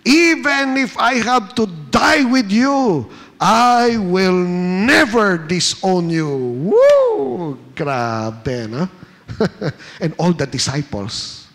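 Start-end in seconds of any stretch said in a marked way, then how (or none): 0.1-6.3 louder, higher insistent vow; emphatic insistence. Acted. Peter insisting to Jesus he will never disown him, emphatic and loud. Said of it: "But Peter insisted emphatically". 6.7-7.6 high, loud preacher's whoop; excited whoop. Real, not acted. Preacher whooping at Peter's boast, high and loud.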